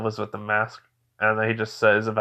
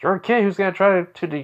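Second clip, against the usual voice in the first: raised-voice telling-off; scolding lecture; 5 semitones higher than usual. Acted. Naruto lectures the boy for attacking the village leader, scolding. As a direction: lecture the kid, pitch jumping up. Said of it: "gets a lecture from Naruto".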